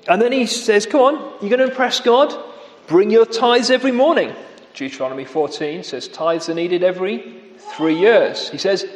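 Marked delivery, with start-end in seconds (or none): 0.9-4.3 higher, quick sarcastic taunt; mocking taunt. Amos taunting rich worshippers about tithes, sarcastic. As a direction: goad them like a scornful prophet. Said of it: "he really mocks them".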